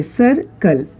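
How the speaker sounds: "सर्कल" in two beats, सर then कल; split syllables. Shown as a demonstration. Teacher counting two parts for students, "सर्कल" split in two. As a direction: separate सर from कल in "सर्कल". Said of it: "दो भागों में split हुआ".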